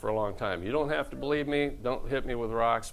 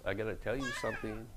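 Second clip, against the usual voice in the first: hushed serious news; 9 dB quieter, faster than usual. Retold or imitated. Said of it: "Missus Young sat me down one day and says".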